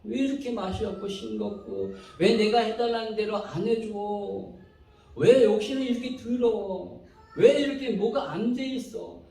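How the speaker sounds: mildly exasperated griping; retold irritated grumbling. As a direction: re-enact nagging over a bad meal. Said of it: "막 제가 이렇게 짜증내고 불평하고 원망하는 거예요".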